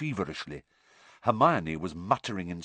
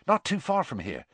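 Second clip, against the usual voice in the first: excited; 8 semitones higher than usual. Acted. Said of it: "who looked excited".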